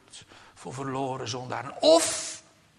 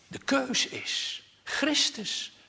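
high drawn-out; 14 semitones higher, much slower than usual. Acted. Preacher posing the choice.

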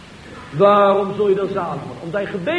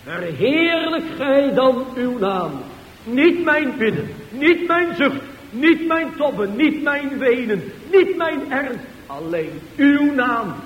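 pleading prayer; 4 semitones higher, slower than usual. Pretend. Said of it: "Hij zegt".

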